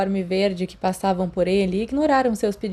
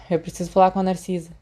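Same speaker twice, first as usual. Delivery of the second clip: calm and clear; faster than usual. Acted. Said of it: "muito claramente e tão calmamente".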